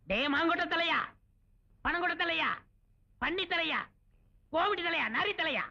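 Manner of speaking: high-pitched, singsong insults; taunting name-calling. Acted. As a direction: toss out each name with a pause. Hurls insults at deaf man. (கேலியாக உயர்ந்த குரலில் திட்டுவது)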